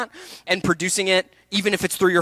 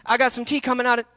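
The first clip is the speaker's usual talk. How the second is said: higher-pitched Southern Belle; Southern Belle accent; 7 semitones higher than usual. Acted. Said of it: "did her Southern Belle accent".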